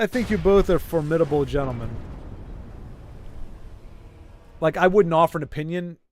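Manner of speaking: light put-on Russian accent; a hint of Russian, like toasting the players. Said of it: "I don't know why I'm talking with Russian accent".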